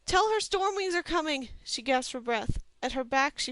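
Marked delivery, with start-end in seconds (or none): 0.0-1.5 higher, louder warning; urgent shout. A narrator's reading. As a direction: Dane warning the barracks of the attack. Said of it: "Dane screamed".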